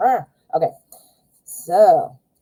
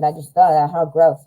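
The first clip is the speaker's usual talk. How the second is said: chewing gum; 4 semitones lower, faster than usual. Real, not acted. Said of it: "ignore the gum in my mouth".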